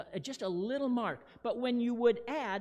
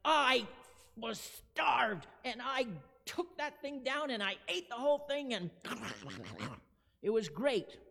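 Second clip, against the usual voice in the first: excited gushing; 2 semitones higher than usual. Shown as a demonstration. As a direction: gush about a great meal. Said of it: "it's like".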